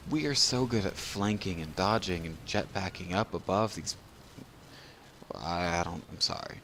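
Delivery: tipsy rambling, losing the thread. Real, not acted. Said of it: "I really am drunk".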